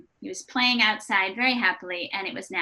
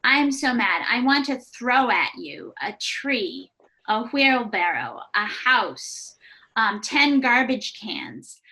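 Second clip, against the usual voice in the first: imitating an angry child; slower than usual. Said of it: "And he said".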